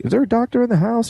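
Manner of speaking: high urgent call; calling out urgently. Retold or imitated. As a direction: call out to the crowd. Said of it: "they're always like".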